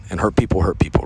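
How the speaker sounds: breathy whisper, almost unvoiced; hushed emphasis. Real, not acted. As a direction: drop to a whisper to let it land. Driving home a hard lesson.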